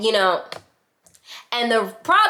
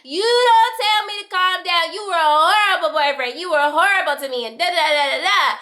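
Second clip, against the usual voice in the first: put-on drunk yelling; 7 semitones higher than usual. Drunk girl screaming at ex told to calm down, yelling. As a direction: bellow it back at him. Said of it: "I'm drunk, and I'm like".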